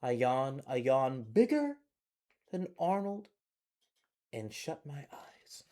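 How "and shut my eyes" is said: slow sleepy whisper. Acted. Child drifting off to sleep, whispered. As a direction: hush it as eyes close.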